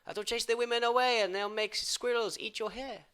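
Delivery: lightly voiced Italian-style friend; a hint of fussy Luigi; Luigi's voice. Quoting friend Luigi's warning, in a lightly put-on voice. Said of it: "he says".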